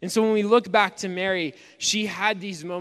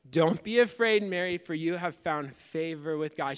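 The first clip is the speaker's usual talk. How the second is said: reassuring words repeated. Retold or imitated. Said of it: "She probably told it two or three times".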